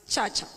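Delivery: "chacha" with a ch in place of the j; imitated Kisii-accented "chacha"; child's Kisii pronunciation. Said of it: "Sokoro pronounces charger".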